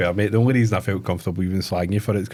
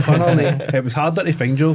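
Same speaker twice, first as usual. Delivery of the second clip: laughing; 4 semitones higher than usual. Real, not acted. Teasing friend about reviews.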